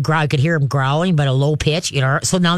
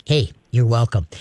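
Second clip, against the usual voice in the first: content dog voice; 6 semitones lower than usual. Pretend. Dog's tail voiced.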